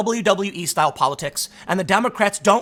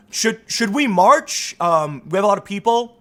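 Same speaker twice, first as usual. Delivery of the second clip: hesitant activist; 2 semitones higher than usual. Retold or imitated. Hesitant activist addresses crowd.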